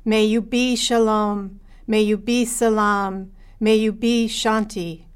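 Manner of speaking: calm prayerful reading. Acted. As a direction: lead the congregation gently in prayer. Leads a prayer for peace.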